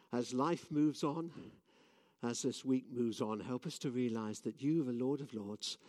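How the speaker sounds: earnest, steady prayer voice. Real, not acted. Preacher leads the congregation in closing prayer. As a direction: pray sincerely on their behalf.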